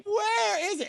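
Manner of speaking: high exasperated squeal; panicked squeal. Retold or imitated. Waiting all afternoon for the screen, high panicked squeal. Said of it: "I'm like".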